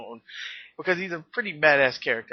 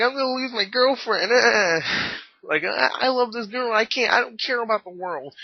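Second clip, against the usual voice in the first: put-on mildly whiny, complaining moan, pitched up; 8 semitones higher, 3 dB louder than usual. Retelling what the character said in the film, imitating a whiny character. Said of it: "he was a little whiny".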